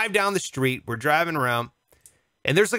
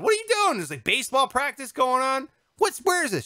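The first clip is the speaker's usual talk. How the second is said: high, shocked disbelief; incredulous outburst; 7 semitones higher than usual. Retold or imitated. Comic mock shocked at the park scene.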